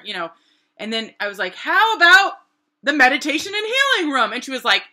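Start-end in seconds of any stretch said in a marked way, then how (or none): 1.5-4.3 high, loud, eager ask; keen mock-eager request; eager pitch. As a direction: pitch the idea with rising excitement. Eagerly pitching her idea.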